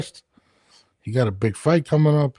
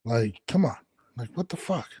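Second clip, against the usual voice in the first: a hushed, disgusted plea; exasperated whisper; 6 dB quieter than usual. Real, not acted. Host venting to his co-host about the wet headphone, whispered. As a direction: breathe it out, fed up. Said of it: "I'm fucking livid right now".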